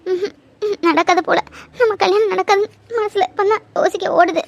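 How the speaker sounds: weepy broken voice through sobs; tearful, voice catching; sobbing. Acted. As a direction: cry as she gives up hope. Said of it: "பைத்தியம் மாதிரி அழாத முதல்ல".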